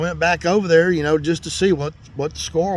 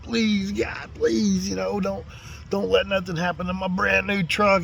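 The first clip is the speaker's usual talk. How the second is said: retold begging; 4 semitones higher than usual. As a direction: plead with God in a higher voice. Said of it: "I was begging God".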